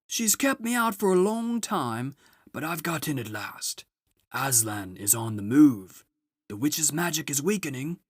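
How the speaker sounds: high, booming jolly Father Christmas; a grand, merry old gift-giver arriving at last; Father Christmas announces his arrival to the children. Acted.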